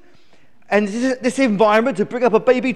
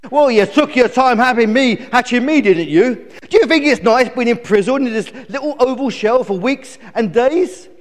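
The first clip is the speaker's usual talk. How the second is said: put-on high, loud bratty baby chick; stroppy high-pitched grumbling; indignant complaining; 9 semitones higher, 5 dB louder than usual. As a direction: rant at your parents, demanding and put out. Newborn chick scolds its parents.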